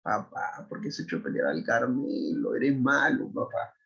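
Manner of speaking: mock tearful child's plea, half-whispered; crying children. Los niños le reclaman llorando al papá, voz llorosa. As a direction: plead like a hurt little kid. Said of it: "los niños ahí llorando".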